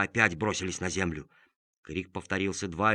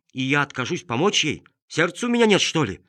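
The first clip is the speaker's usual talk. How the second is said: indignant; 5 semitones higher, 4 dB louder than usual. Acted. Indignant inner thought.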